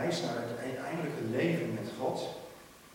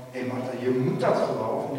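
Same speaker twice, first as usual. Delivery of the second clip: louder, pushy order; what Jesus does not say to Martha, louder and bossy; bossy demand; 7 dB louder than usual. Pretend. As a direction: push the belief on her. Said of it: "zegt hij niets van".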